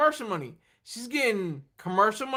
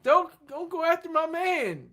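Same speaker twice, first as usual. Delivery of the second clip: a hint of a pleading singer, higher and louder; imitating begging; 8 semitones higher, 4 dB louder than usual. The singer begging the other woman, lightly voiced plea. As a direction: beg her not to take him. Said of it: "She's begging the woman".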